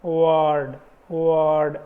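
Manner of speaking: वर्ड with a long er and no rolled r; long er demo. Shown as a demonstration. Teacher models वर्ड for the class, long er. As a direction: say वर्ड drawing out the er. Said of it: "अ की long sound".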